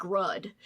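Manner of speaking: "Rudd" said for road with a short vowel; odd pronunciation of road. Retold or imitated. Reader showing how Judd says road, odd pronunciation "Rudd". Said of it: "Judd says it weird".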